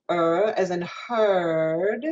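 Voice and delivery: "er" and "heard" held long with R colour; hooked R. Shown as a demonstration. Teacher showing the American vowel, hooked R in "heard". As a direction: slowly curl the R in "er" and "heard". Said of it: "where I'm gonna hook my R".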